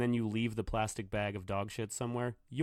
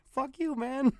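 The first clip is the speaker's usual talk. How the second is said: furious yell; 6 dB louder, slower than usual. Retold or imitated. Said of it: "He was just".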